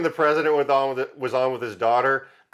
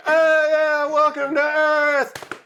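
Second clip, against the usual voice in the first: much higher, slow, hammed-up hippie; 4 dB louder, much slower than usual. Mocking the rooftop hippies welcoming aliens, high dreamy voice. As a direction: sing it out like a blissed-out hippie. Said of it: "they're like".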